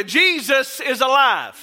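loud Easter shout, stretched out slow; shouted proclamation. Real, not acted. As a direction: proclaim it like a victory.

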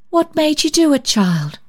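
high startled question; touched surprise. A narrator's reading. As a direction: ask in moved surprise. Susan moved by gift.

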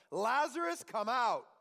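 loud, commanding call. Acted. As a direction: call the dead man out of the tomb. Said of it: "called out with a loud voice".

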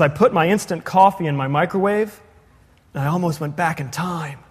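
flat deadpan comedian delivery; Stephen Wright monotone. Retold or imitated. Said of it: "He speaks kind of with a monotone voice".

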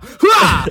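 sharp high grunt like a serve; tennis grunt. Pretend. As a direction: grunt as if hitting the ball. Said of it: "I'm in a tennis match right now".

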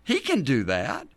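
lightly acted protest from a doubtful believer; mock incredulous objection, jumping up in pitch; objecting listener. A simple follower protesting he is no Elijah, mildly incredulous. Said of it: "But now we ask the question".

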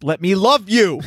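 mock pleading. Mock plea for affection.

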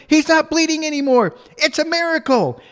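very high-pitched mock child proclamation; imitated kid squeal of news; Alex. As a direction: announce it like an overjoyed little girl, way up high. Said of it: "She turns to all the little girls and go".

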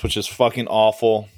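speaking with hiccups. Real, not acted. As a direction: hiccup through the words. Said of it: "I got the hiccups now".

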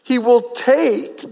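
"take" stretched for weight; stress on take. Real, not acted. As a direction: make "take" stand out from the sentence. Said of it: "I emphasize the word over and over".

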